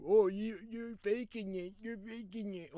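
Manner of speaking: high-pitched mock whine, loud at first; mocking accusers. Streamer imitating people who say it's fake, high mocking voice. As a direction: mimic them way up high.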